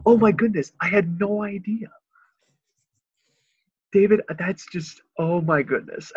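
high, loud breathless amazement; hammed-up gushing friend; imitating Josh. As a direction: gasp it out in delighted awe. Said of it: "That's all he ever says".

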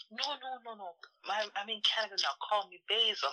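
high, quick, eager to be Canadian; mildly voiced customer; customer insisting. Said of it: "He said".

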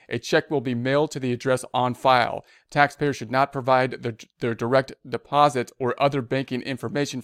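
measured read-aloud of an official notice; news read. Real, not acted. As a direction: read the bulletin out formally. Back to reading the text.

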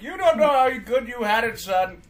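hammed-up parental scolding; ranting parent. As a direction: lay into the kid like an aggrieved parent. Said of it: "I'm just all like".

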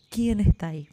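el mismo grito devuelto por la montaña; eco repitiendo. A narrator's reading. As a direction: repetir como un eco lejano. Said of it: "recibe como respuesta". (eco que responde)

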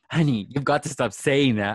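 imitating Dorit's accent, lively and emphatic. Retelling Dorit's iconic line to a co-host, accent imitation. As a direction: put on a little of Dorit's accent. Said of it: "It was her accent".

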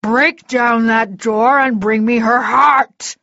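slow, loud, menacing order; angry command. Acted. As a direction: bite out each word of the command. Villain orders his men to kill.

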